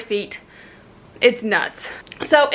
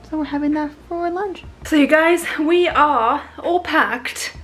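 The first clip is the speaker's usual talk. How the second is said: American vlogger drifting into British; British accent; 4 semitones higher than usual. Real, not acted. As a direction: slip into a casual British accent. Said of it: "I don't know why I've got a British accent".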